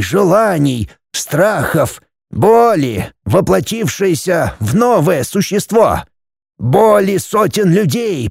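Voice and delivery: a hint of a mystic old man explaining; old Kofler's voice. Kofler reveals Michael's nature.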